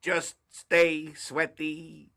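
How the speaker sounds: slow, stiff robot voice. Acted. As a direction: say it like a machine. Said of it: "That was my robot voice".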